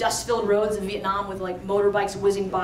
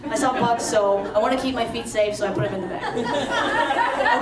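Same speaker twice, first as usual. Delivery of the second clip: retelling her cousin's words while laughing; quoting through laughter. Retold or imitated. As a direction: let the laugh break through the quoted excuse. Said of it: "and she said".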